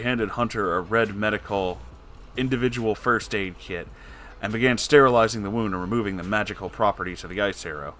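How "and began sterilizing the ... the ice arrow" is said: usual speaking voice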